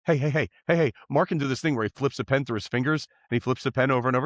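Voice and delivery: put-on fast, eager drunk chatter; drunk excited pestering. Drunk guy pestering a stranger at the bar, fast. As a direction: rattle it off, tipsy and eager. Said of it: "doing things like".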